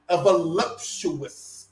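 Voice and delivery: stretched-out voluptuous, savoured slowly; drawn out. Shown as a demonstration. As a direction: linger on voluptuous. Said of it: "Let me say that again slowly".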